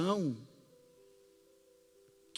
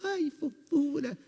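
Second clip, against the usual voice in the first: put-on higher, quicker cooing at a baby; baby talk voice; 7 semitones higher than usual. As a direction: coo it like to a newborn, much higher. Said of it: "vai mudar o tom de voz". (voz de falar com bebê, mais aguda e rápida)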